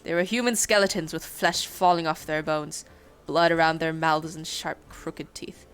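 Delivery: put-on dwarf with a Scottish accent. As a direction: roll it out in Scottish brogue. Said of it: "that's a good indicator of accent".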